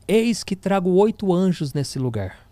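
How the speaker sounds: lightly voiced prophetess, slow and grave; authoritative prophetic voice. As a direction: announce it like a prophet speaking for God, slowly. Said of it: "começa a falar com a autoridade".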